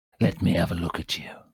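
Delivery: ghoul creature voice. Voicing a ghoul who sniffs a player: ghoul voice. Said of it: "step back, Mister Ghoul".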